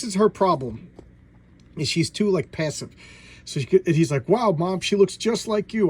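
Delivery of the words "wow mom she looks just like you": higher, louder imitation of a thrilled son; put-on wowed reaction; mock amazement. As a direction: imitate gushing to Mom. Voicing the son's delighted amazement.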